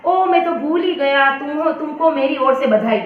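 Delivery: hammed-up "oops, I forgot"; mock afterthought. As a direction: act as if it just slipped your mind. Mocking letter writer's belated afterthought.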